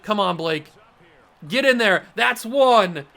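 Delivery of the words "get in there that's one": loud, higher cheering; root him into the end zone; cheering the score; excited cheer. Real, not acted. Cheering a touchdown run.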